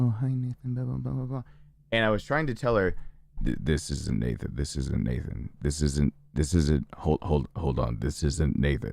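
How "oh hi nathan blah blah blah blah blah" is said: rushed, fast chatter running on. Retelling a phone call from his brother's girlfriend, imitating Amber's quiet voice. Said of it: "she has a really quiet voice and was just like".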